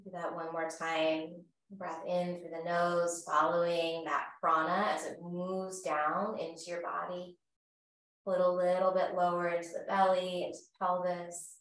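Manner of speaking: calm, measured yoga-teacher voice; guided breathing. Real, not acted. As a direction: gently guide them through each breath, unhurried. Leads guided breathing practice.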